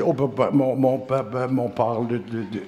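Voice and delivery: a light stammer, fading off; halting stuttering friend. Retold or imitated. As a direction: stammer through the start of each word. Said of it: "L'autre, il bégayait".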